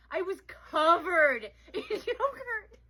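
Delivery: high, drawn-out words breaking into laughs; real laughter while talking. Real, not acted. Friend admitting the yogurt mess, cracking up. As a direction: stretch it out through the giggles. Teller cracking up at own story.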